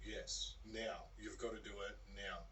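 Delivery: restrained, softly stern order; quiet firmness of a voice in the head; stern inner voice. Retold or imitated. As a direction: insist without raising the voice. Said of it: "a pretty stern voice inside of his head".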